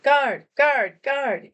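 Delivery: loud, high call for the guard; yelled call. Acted. Vladimir calling the guard from his cell, loud shout. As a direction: shout it out to summon help. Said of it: "yelled Vladimir".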